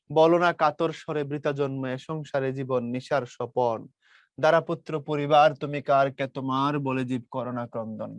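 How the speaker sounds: measured, level-pitched verse reading; poem recitation. Acted. Teacher recites poem lines to students before explaining, measured recitation. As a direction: recite the verse in even phrases, falling at the close.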